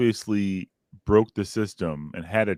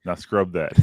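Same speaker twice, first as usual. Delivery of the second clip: slow, lower, menacing parent voice; creepy slow voice; 3 semitones lower than usual. Pretend. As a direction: loom over the kids and drawl it out. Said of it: "creepy, slow voice like that".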